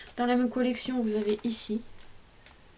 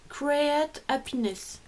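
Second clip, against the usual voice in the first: French-accented English; 4 semitones higher, much slower than usual. Real, not acted. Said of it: "Désolée pour mon anglais".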